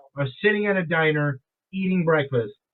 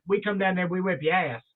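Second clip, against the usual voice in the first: Southern accent. Shown as a demonstration. Host demonstrating how the stranger said it, mild Southern accent. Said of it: "my Southern accent".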